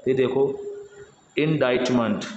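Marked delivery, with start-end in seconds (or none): 1.4-2.2 इंडाइटमेंट with a silent c, 'dite' like 'bite'; correct pronunciation. Shown as a demonstration. Teacher models इंडाइटमेंट for learners, careful pronunciation. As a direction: say इंडाइटमेंट as in-DITE-ment. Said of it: "इंडिक्टमेंट नहीं है".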